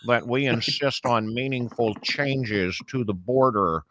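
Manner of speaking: a light, slowed take on McConnell; Mitch McConnell impression. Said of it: "I've been practicing on Mitch McConnell".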